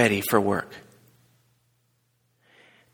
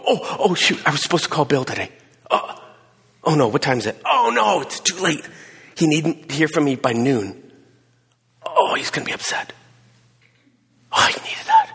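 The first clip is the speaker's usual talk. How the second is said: acted inner panic. Preacher acts out inner panic.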